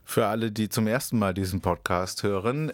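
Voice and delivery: holding back a burp mid-sentence. Real, not acted. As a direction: talk through a rising burp. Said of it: "ich muss aufstoßen".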